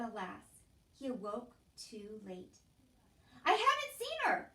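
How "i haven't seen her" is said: loud, high shout. A narrator's reading. Louise shouting that she hasn't seen Meg, loud. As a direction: yell it out in a temper. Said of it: "Louise was shouting".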